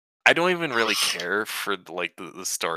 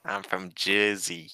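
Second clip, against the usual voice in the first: slow, softer mock New Jersey accent; 5 dB quieter than usual. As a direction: stretch it out like a Jersey local. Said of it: "how do you think they say that".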